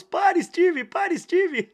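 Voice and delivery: very high, loud shout; yelling in pursuit. A narrator's reading. Crowd chasing the fleeing man they think is Steve, yelling. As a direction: holler it high like a chasing mob. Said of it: "veio ao meu encalço aos berros".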